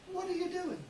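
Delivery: "doing" ending in a plain n, doin'; Southern dropped g. Shown as a demonstration. Teacher showing how Texans ask it, "doing" as doin'. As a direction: drop the g off "doing". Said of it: "I will say".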